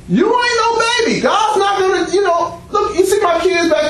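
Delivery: high, insistent preacher's exhortation; high emphatic preaching. Real, not acted. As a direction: pitch jumps up, pressing the point.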